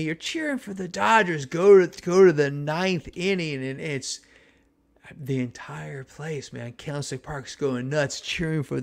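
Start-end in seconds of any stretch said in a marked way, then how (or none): 0.0-3.6 higher, disbelieving call-out to the crowd; indignant jab at fans. Retold or imitated. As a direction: needle the people beside you for cheering the rival. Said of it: "There's people next to me".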